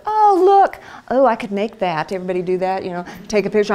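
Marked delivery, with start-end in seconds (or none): 0.1-2.1 a hint of starry-eyed wonder; imagining in model homes, mildly excited; mock delight. Pretending in dream homes.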